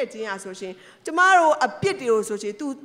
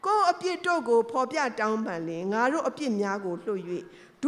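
scripture reading. Acted. Reads a Bible verse.

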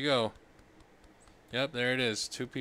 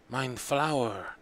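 lightly voiced greedy child; 7 dB louder, slower than usual. Childish game character voice.

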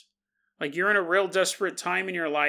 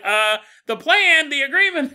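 mock exasperated demon; 10 semitones higher, 10 dB louder than usual. Demon reminds them.

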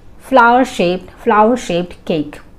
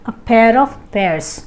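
each word read out slowly and clearly; 2 semitones higher, much slower than usual. Shown as a demonstration. Teacher reading a homophone example slowly. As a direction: dictate it word by word. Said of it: "teacher reads example slowly".

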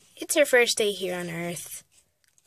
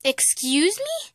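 slow, rising warning question; slow parental warning, ending high; stern challenge; 6 semitones higher, slower than usual. Acted. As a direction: draw it out, pitch climbing, daring a reply. Mother challenges child's back talk.

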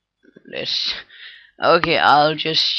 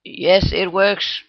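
pleased; 5 semitones higher, 4 dB louder, slower than usual. Real, not acted. Test succeeds.

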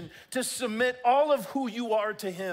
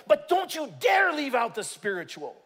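emphatic shout; 4 semitones higher, 5 dB louder than usual. Real, not acted. Preacher warns loudly.

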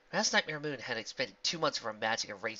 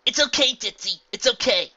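reassuring; 9 semitones higher, 11 dB louder than usual. Acted. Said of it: "Rainbow reassured her".

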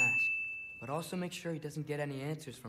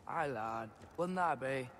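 bad Mimir accent; slower than usual. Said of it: "I can't do your accent".

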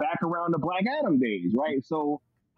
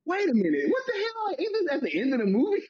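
retold disbelief; 12 semitones higher, faster than usual. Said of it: "I was like".

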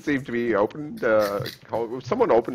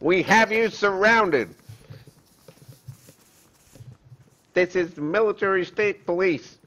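slightly raised, measured police announcement; mock police officer; 4 semitones higher than usual. Plays police ordering surrender.

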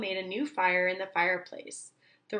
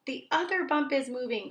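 crying out; 5 semitones higher than usual. Acted. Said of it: "cried Owl".

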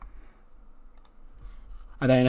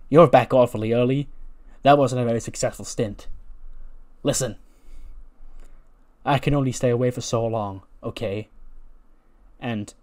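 a lightly voiced angry wrestler promo; Kevin Owens promo. Kevin Owens on the mic ranting about Adam Cole. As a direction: cut a defiant heel promo. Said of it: "he takes the mic and he goes".

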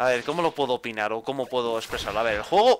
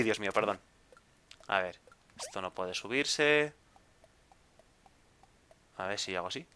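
ordinary delivery

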